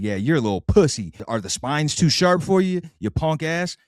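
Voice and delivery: a trash-talking pill goading the eater, rising to high squeaky mockery; taunting Thornoid. Pill taunting the guy swallowing it, high mocking squeak. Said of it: "they talk shit to you as you're ingesting them".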